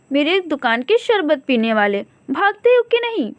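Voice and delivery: high, scolding bird voice; mock-fierce little sparrow; indignant sparrow.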